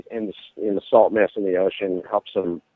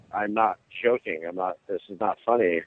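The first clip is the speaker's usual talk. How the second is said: lower, measured and serious; retold earnest insistence; 3 semitones lower, 4 dB quieter than usual. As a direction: insist sincerely, pitch dropped.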